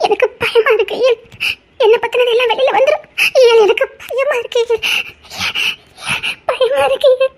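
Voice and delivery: tearful, pleading with fear; frightened plea. Acted. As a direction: beg him, scared and near tears.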